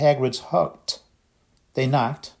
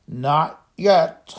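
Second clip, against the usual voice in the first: miserable; 5 semitones higher, 5 dB louder than usual. A narrator's reading. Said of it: "said Hagrid miserably".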